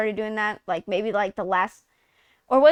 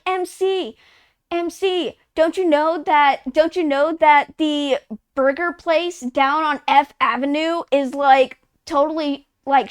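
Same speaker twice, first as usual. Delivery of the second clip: mock game character. Game characters chatting to MC, light teen mockery. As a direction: drag out the gossip like a teen. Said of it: "they're like".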